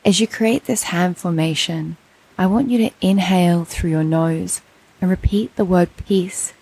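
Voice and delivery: meditation teacher, long pauses between phrases; measured, spacious meditation voice; guided meditation. Acted. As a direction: guide them into stillness, one phrase at a time.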